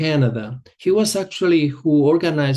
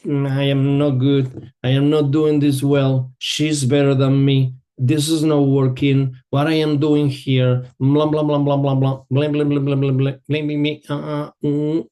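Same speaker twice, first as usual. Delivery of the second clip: inner critic voice. Retold or imitated. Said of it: "When that inner voice is saying".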